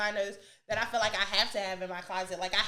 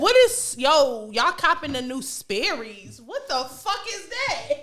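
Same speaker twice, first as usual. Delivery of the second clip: mocking; 3 semitones higher, 5 dB louder, slower than usual. Mocking someone's new Sperry's.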